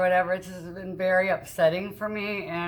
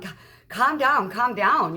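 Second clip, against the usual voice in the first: slightly raised, insistent retold plea; urging calm; 3 semitones higher, 4 dB louder, slower than usual. Woman retelling telling an upset man to calm down, urgently. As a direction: retell trying to settle someone down, drawn out at first.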